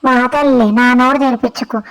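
cheeky sulky pet voice; a lightly put-on sassy pet; voiced pet. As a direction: talk back like a spoiled pet. Pet talks back to owner.

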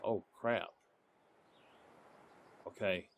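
hushed, stalking prey; whispering while hiding. Real, not acted. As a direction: keep it low so the bear won't hear. Sneaking up on a bear.

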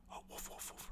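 woof, woof, woof as a soft whispered bark; corrected bark. Retold or imitated. Correcting the dog's bark for listeners, whispered woofs. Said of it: "rather not ruff".

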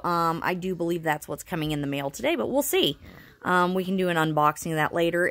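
slightly wheezy, pneumonia-worn voice. Real, not acted. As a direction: speak with a bit of wheeze. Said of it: "If I sound a little wheezy".

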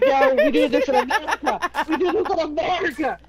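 mock brash American. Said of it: "She's all like".

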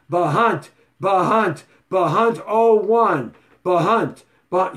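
loud repeated shout-out of a name; calling out. Real, not acted. Greeting a viewer who checked in, loud call-out.

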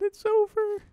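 very high squeal of release; overwhelmed cry. Real, not acted. Player as the fight ends, overwhelmed cry.

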